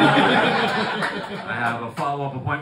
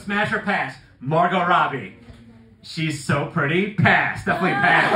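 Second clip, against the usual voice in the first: put-on kid's verdict; 5 dB louder than usual. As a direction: declare it like an excited kid. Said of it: "comes up to me and goes".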